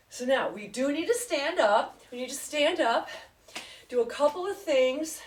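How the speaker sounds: breathless, between gasps; out of breath. Real, not acted. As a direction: talk while winded from exercise. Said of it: "I'm kind of out of breath".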